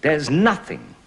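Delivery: verse speaking. Shown as a demonstration. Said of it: "A regular line".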